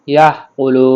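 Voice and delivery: "কুলুন" held long, closing on n; final nun sounded. Shown as a demonstration. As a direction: stretch "লু" and land on the n of "কুলুন". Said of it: "নুনটা শেষে উচ্চারণ করতে হবে". ("কুলুন" টেনে শেষে নুন উচ্চারণ)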